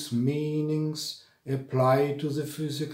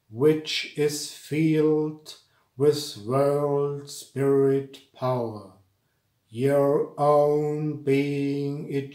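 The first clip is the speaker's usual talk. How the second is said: slow, measured chant-like delivery with drawn-out words; mantric verse recitation; slower than usual. Shown as a demonstration. Teacher reciting a mantric verse to students, slow solemn recitation. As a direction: recite each line deliberately, pausing between phrases.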